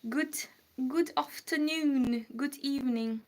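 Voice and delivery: trying out a British accent. Shown as a demonstration. Streamer greeting a viewer from England, British accent. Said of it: "let me do a British accent".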